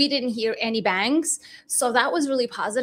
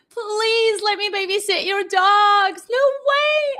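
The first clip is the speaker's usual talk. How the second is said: higher, louder pleading whine; mock begging; 7 semitones higher, 4 dB louder than usual. Real, not acted. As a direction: beg playfully for the dogs. Begging to babysit dogs.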